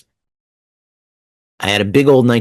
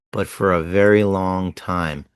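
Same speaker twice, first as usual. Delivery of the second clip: slow savoring of the line; 2 semitones lower than usual. Retold or imitated. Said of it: "he thinks and speaks slowly".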